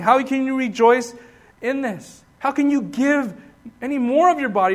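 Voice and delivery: mildly incredulous, insistent string of questions; incredulous questioning. Acted. Preacher voices a doubter challenging Paul on rejoicing in chains, incredulous. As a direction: press him with disbelieving questions.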